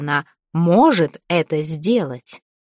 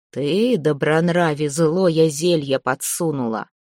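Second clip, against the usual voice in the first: a slow menace from beyond the grave; dead man's voice; 2 semitones lower than usual. Acted. Dead Veres threatens Zateya, slow and menacing.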